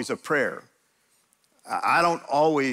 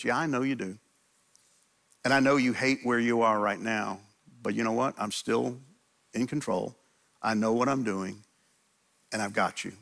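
gentle God voice; 4 semitones lower, 3 dB quieter than usual. Acted. God's voice reassuring the lamenter.

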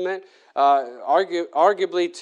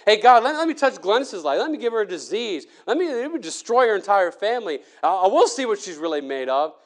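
Satan taunting; 4 semitones higher than usual. Retold or imitated. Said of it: "Satan says".

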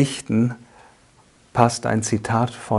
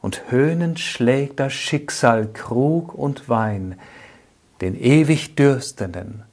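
solemn poetry reading, strong openings falling away at line ends; poem recitation. Acted. Speaker recites Ernst Stadler's first poem to listeners, measured poetic recitation. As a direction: recite the verse with measured pauses.

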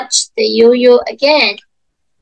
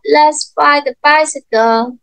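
higher, sing-song for little ones; reading to a toddler; 4 semitones higher than usual. Shown as a demonstration. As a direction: lilt it for young kids.

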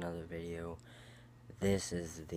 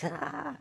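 high-pitched mocking laugh; high imitation laughing "ah"; imitated laugh; 3 dB louder than usual. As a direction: mimic a little cousin's high cackle. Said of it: "and, you know, laughing".

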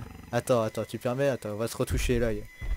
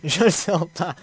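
louder, higher, laughing it out; 4 semitones higher, 6 dB louder, slower than usual. Real, not acted. Gamer repeating his worry about the creature, now laughing. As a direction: laugh nervously through the words. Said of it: "repeated with laugh".

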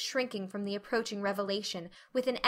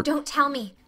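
quick and breathless, cutting him off; eager girl stopping the old man's words, breathless; breathless interruption; 5 semitones higher, 3 dB louder than usual. Acted. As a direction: rush in before he can say it. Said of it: "she interrupted breathlessly".

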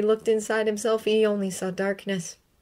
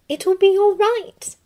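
soothing; 13 semitones higher, 7 dB louder than usual. A narrator's reading. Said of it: "in a soothing voice".

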